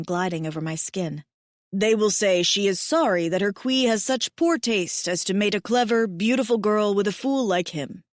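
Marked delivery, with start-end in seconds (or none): 1.7-8.0 a hint of a devoted big mate; lightly lowered male voice; tender alien mate. Mate teases self-deprecatingly.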